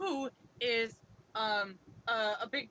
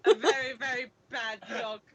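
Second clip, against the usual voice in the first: hammed-up, badly faked English accent; playful attempt at a Cockney English accent; 12 dB louder than usual. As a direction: put on a dodgy English accent. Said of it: "It's a bad English accent".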